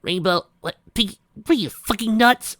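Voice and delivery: high incredulous shout. Acted. Rainbow yelling at giggling Pinky. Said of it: "Rainbow shouted".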